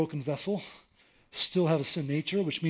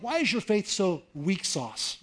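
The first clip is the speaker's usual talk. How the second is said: modern casual jab; slower than usual. Shown as a demonstration. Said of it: "something a little more modern".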